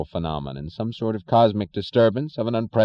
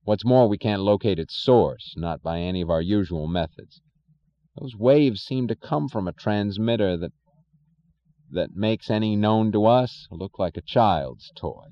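solemn. Acted. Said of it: "his voice oddly solemn".

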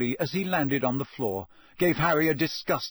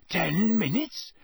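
slow, higher-pitched disbelieving question; croaked; 5 semitones higher, slower than usual. A narrator's reading. Harry hearing the task starts very soon, croaked. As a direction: stretch out TEN in dawning alarm. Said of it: "Harry croaked".

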